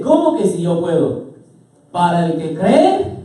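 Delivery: emphatic preacher's retort; Jesus. Acted. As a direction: throw the doubt back, slowing into a rising finish. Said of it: "¿cómo le responde Jesús?".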